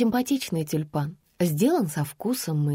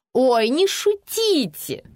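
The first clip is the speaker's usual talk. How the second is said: giggly; 7 semitones higher, 5 dB louder, much slower than usual. Acted. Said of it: "захихикала незнакомка".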